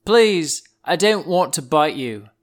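hammed-up threatened snake; warning rattlesnake. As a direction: warn them off, ending on a slow, drawn-out command. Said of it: "they shake them to threaten".

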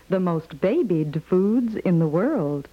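ordinary talk

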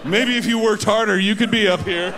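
a hint of a snooty rich man, laughing; smug rich guy. Counting cash in business class, mock snooty sneer. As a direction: sneer at the economy passengers.

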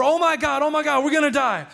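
high-pitched, loud mock panic; imitated loud cry. Imitating atheist woman as plane falls, high panicked cry. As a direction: act out a passenger sure of death. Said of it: "in a very loud voice saying".

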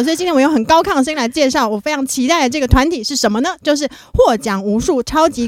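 high-pitched. Real, not acted.

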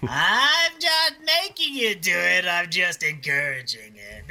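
slow, creepy doctor voice; creepy Kevorkian. Acted. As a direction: coax slowly like a creepy doctor. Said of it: "my teeth on Doctor Kevorkian".

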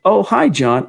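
mock strange-accented greeting to John; weird accent. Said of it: "in a weird accent".

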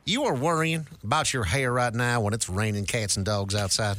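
put-on light Southern accent; a hint of a Southern accent. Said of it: "script says Southern accent".

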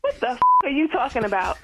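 angry. Real, not acted. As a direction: snap it at the caller. Angry reply to caller.

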